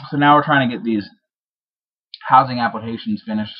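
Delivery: talking around a wad of gum; chewing gum. Real, not acted. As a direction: speak with gum in your mouth. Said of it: "I just realized I have gum in my mouth".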